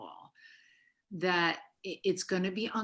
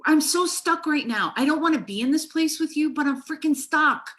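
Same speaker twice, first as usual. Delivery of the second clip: louder, higher, pressing every word; urgent modelling; 7 semitones higher, 6 dB louder than usual. Shown as a demonstration. Therapist voicing a stuck, furious partner, loud and urgent. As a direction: show the clients how to blurt out being stuck. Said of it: "I said".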